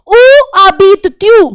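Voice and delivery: Où habites-tu spoken very slowly and clearly; slow French demo. Shown as a demonstration. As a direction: model Où habites-tu for learners. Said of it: "teaching French phrase".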